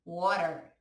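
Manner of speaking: "water" said wah-ter with a tapped r; English "water". Shown as a demonstration. Teacher modelling English "water" for students. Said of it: "vê como se pronuncia".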